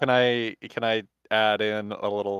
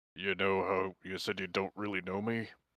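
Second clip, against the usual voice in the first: low, much quieter, hushed voice; 2 semitones lower, 11 dB quieter than usual. As Fenziris, turning to Yavari, speaking low so as not to alert the others. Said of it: "say kinda low so as not to alert the others".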